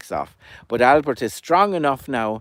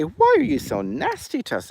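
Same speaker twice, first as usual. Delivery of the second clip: high, lightly voiced chick; high chick complaining to Albert; hurt little chick; 11 semitones higher than usual. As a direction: plead up high like a wounded chick.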